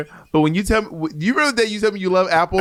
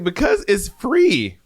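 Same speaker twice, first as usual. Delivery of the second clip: slow, drawn-out matter-of-fact answer; slow and deliberate; 3 semitones higher, much slower than usual. Retold or imitated. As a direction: stretch each word out slowly. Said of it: "I was like".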